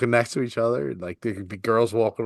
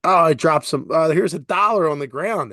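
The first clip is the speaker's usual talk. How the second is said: imitating grandma; 5 semitones higher, 4 dB louder than usual. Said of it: "she would act like".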